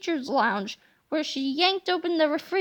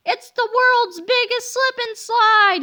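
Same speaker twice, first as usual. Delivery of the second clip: higher, louder gleeful shout; excited cry; 8 semitones higher, 6 dB louder than usual. Acted. Mister Meaner sprays the hallway, excited cry. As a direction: whoop it like a kid at play. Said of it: "he cried".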